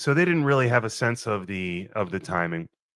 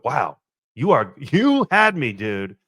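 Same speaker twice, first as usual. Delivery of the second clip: relieved outburst; 3 semitones higher, 6 dB louder, slower than usual. Retold or imitated. Retelling reaction to Ben's joke.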